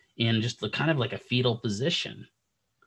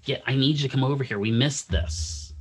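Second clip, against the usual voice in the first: louder, fast call across the ward, then slowing hard; urgent call; 3 semitones higher, 6 dB louder than usual. Retold or imitated. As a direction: call them over, urgent. Calling the PTs over urgently.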